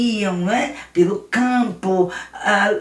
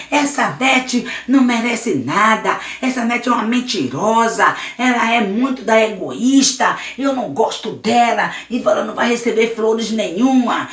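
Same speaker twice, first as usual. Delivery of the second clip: louder, spiteful rant about Nete; spiteful bully; 3 semitones higher, 3 dB louder than usual. Acted. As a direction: spit out the grudge. Luiz stomps the flowers.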